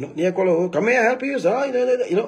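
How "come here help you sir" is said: very high, tough, put-on Indian English accent. Speaker comparing their English to India and Bangladesh, imitating Indian accent. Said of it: "they have this weird accent".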